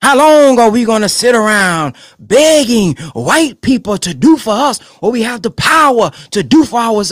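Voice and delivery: a hint of a pulpit voice; imitating the minister. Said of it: "He was teaching".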